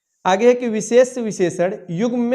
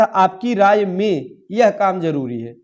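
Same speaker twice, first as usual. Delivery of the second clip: slow, careful model reading of the correct form; slow corrected sentence; slower than usual. Shown as a demonstration. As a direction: read the fixed sentence slowly, word by word. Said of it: "यह होना चाहिए था". (धीमे और स्पष्ट सही वाक्य)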